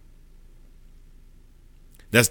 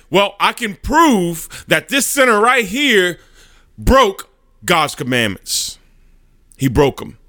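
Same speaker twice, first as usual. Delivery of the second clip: higher and slow, leaning on each word; insistent Satan; 7 semitones higher, slower than usual. Acted. Satan to the judge about the sinner, slow and insistent. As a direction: drag out the accusation with relish.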